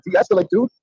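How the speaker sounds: high, insistent calming plea; urgent plea. Retold or imitated. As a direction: pitch it up, telling him to calm down. Repeating plea to cop.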